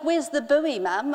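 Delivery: mimicking son's American accent, "buoy" as "boo-ee"; a child's American "buoy", said as "boo-ee". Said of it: "They start talking in this weird accent".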